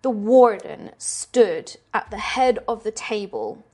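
slow, deliberate horror scene-setting; game master narration. Acted. Game master showing players a torture room, slow and ominous. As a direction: draw out each grim detail with dramatic pauses.

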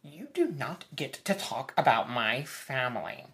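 clipped, distinct Meredith impression; crisp, pointed imitation of Meredith. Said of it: "Family is the one word she says very distinctly".

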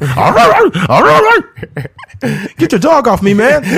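high, loud frantic pleading; panicked pleading. Pretend. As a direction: beg the dog off, panicking. Man pleading as dog attacks.

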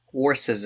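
"Horses" said with a w, as "worses"; altered pronunciation. Shown as a demonstration. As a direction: start "Horses" with a w sound. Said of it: "as those in the know would call them".

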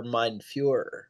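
hushed, drawn-out impression of a whispering dog; imitated whisper. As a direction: drop low and slow, as if whispering.

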